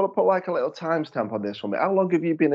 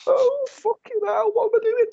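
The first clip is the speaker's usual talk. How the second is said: shrill panicked squeak, much higher; panicked pilot over the tannoy; 4 dB louder than usual. Retold or imitated. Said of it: "my voice comes over the tannoy".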